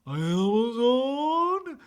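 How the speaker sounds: slow, drawn-out mock villain voice; a hint of Darth Vader. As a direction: stretch it out like a bad Darth Vader. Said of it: "kinda like Darth Vader".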